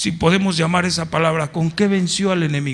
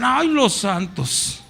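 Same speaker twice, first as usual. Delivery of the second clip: slow sneering sing-song, pitched higher; mocking; 5 semitones higher, slower than usual. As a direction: drag out each "Ay" with scorn. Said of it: "se burla porque dicen".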